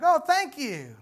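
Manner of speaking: loud, high, fake-polite thanks; mock eager courtesy; forced politeness. Suitor to pretty girl, faking delight. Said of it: "he's like".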